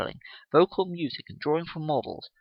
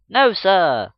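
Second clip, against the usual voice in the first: eager pupils' answer; 6 semitones higher, 10 dB louder than usual. Acted. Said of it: "from the other".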